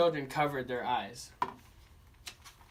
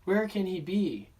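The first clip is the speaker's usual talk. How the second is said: put-on children calling; 3 semitones higher, 3 dB louder than usual. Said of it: "said the children".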